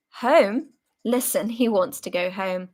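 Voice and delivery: mock him to the others; mocking jeer. Soldier jeering at the homesick comrade, loud mockery.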